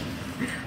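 short breathy laugh; quick laugh under the talk. Real, not acted. Friend amused at a self-kill, short laugh. Friends bantering over a game.

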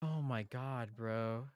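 very soft relieved sigh; breathless relief. Real, not acted. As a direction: exhale it, spent after fright. Relieved after scare.

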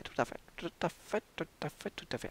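fading repetition. Pretend. Repeating, fading away.

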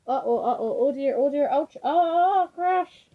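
acted panic, rising to a loud high peak; building alarm. Reader acts out toppling and crashing.

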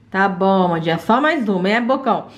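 gentle mother voice. Acted. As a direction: talk to the child like a patient mum. Mother feeding child.

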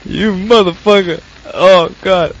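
loud startled curse; startled shout. Real, not acted. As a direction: yell it in shock. Cursing at monster after scare.

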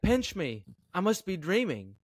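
quoted exclamation of disbelief; mock disbelief. Acts out a stock phrase.

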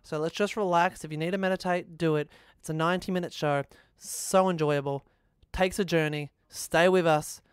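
slow down and settle the listener in. Real, not acted. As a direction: ease off into an unhurried show intro. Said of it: "The pace is too fast".

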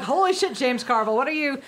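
retold astonishment, starting high; mock-stunned outburst; amazed. Fan reacting to Carville's sayings, playfully astonished.

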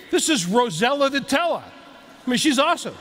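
best attempt at a Boston accent; proud introduction in a mock Boston accent. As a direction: put on a playful Boston accent. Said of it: "that's my best Boston accent".

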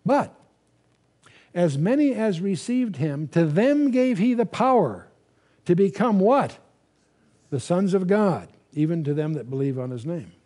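slow, measured reading of verse; scripture reading. Acted. Bible teacher reading the verse slowly to the congregation. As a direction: read the verse out deliberately to the class.

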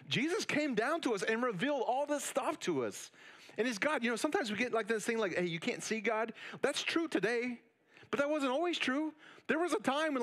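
preacher rising to a passionate peak; fired-up preaching. Real, not acted. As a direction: build up the urgency and push. Preacher at full intensity.

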